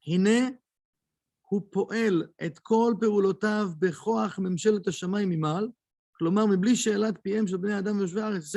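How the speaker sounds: quick recitation of a memorised text; reading the Hebrew text. Acted. Teacher reading the Kabbalah text aloud to students, fast recitation. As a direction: rattle off the Hebrew source at speed.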